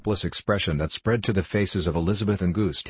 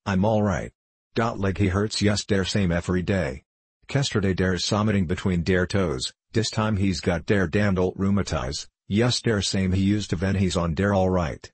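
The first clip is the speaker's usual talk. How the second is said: put-on thick German accent, rambling complaint; old German patient. Patient describing his leg to a visitor, German accent. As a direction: grumble through symptoms in German-English.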